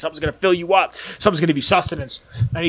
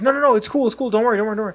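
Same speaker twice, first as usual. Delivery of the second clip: eager reassurance; 5 semitones higher, much faster than usual. Retold or imitated. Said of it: "He's like".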